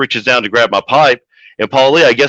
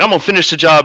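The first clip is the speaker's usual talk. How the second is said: angry threat; 6 semitones higher, faster than usual. Retold or imitated. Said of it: "I was like".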